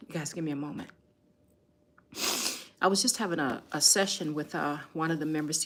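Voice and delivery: fighting back tears while speaking; real tears. Real, not acted. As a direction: voice breaking through tears. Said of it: "excuse me for the tears".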